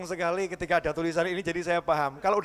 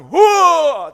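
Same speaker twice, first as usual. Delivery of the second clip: sharp, higher, louder huff; loud angry huff; 10 semitones higher, 13 dB louder than usual. Acted. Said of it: "berperan jadi orang". (dengusan marah yang keras)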